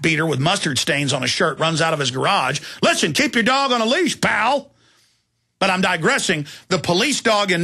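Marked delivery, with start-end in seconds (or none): 2.8-4.7 higher, blunt warning to a neighbor. Retold or imitated. Host replaying his warning to the dog owner, blunt. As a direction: tell him off firmly.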